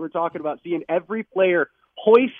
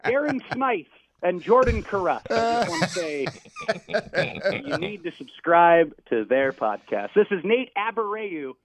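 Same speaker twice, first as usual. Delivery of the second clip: PA announcer voice. Pretend. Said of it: "in your P A voice".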